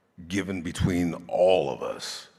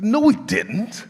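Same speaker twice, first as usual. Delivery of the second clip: laughing denial; 14 semitones higher, 7 dB louder than usual. Retold or imitated. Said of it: "I said".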